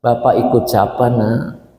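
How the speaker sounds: put-on pleading old father. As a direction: ask the children meekly where to go. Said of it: "Sekarang beda ngomongnya".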